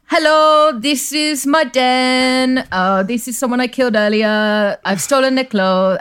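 put-on vampire talking to the camera in a lightly done New Zealand accent. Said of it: "I'm trying to do that accent".

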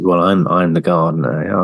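mock Monty Don. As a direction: savour each word like a TV gardener.

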